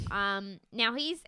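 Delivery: ordinary talk, nothing marked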